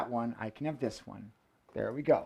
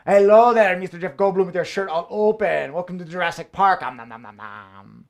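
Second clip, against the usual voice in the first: sassy T-Rex. Pretend. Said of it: "That the sassy T-Rex way?".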